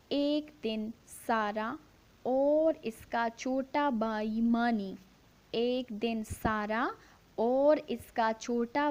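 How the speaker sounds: slow, clear story reading for a class; measured classroom read-aloud. Shown as a demonstration. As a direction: read it out word by word for the children. Teacher reads story slowly aloud.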